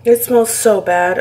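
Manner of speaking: loud, slow, disgusted complaint. Real, not acted. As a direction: groan it out in disgust. Repeats disgust at the smell.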